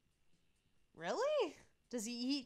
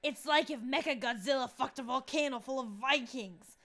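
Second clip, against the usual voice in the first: louder raspy rock-fan shout; a mild strained metal yell; hoarse metalhead yell; 3 dB louder than usual. Acted. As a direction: scream it like a metalhead losing it. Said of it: "Damien's voice hurts".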